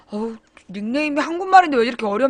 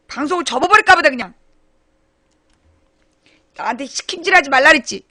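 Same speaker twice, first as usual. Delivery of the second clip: loud, high, fast complaining rant; mock angry rant; 8 semitones higher, 7 dB louder, faster than usual. Real, not acted. Streamer ranting to viewers about her sister, mock angry. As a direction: vent the grievance fast and loud.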